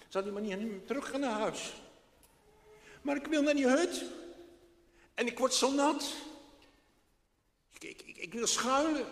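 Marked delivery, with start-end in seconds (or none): 3.0-9.1 put-on loud, high, insistent child; a wet boy near tears insisting; upset boy. Boy Freek insisting he wants shelter, loud and high.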